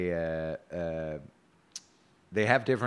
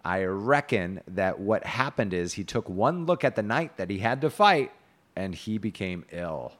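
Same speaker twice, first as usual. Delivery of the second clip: measured reading, slow at the start; declaimed knight's speech; 3 dB louder, slower than usual. A narrator's reading. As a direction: quote the scornful knight like a storyteller. Reads Sir Kay's speech.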